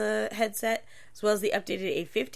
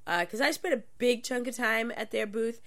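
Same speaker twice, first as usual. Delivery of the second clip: talking around a cough drop; sucking a cough drop; 2 semitones higher than usual. Real, not acted. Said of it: "I'm sucking down a cough drop".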